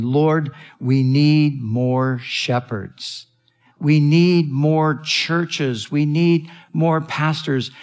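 slow, earnest plea to the Lord; slow prayer. Real, not acted. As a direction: pray it out slowly, pleading. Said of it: "That is what I am praying".

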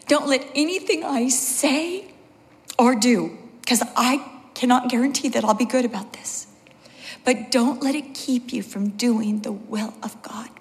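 imitating a crying mother, partly whispery; earnest, halting plea through imagined tears; tearful mom. Crying mom phoning her daughter before church, tearfully pleading. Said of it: "she's crying really hard".

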